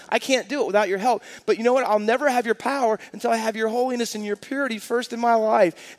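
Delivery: a lightly voiced prophet begging for help; pleading prophet. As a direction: hurry the confession out. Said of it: "he says about himself".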